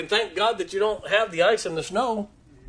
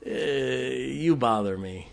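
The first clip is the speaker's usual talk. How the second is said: mock fake cheer; 3 semitones lower, 5 dB quieter, slower than usual. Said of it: "I don't think we have to be happy".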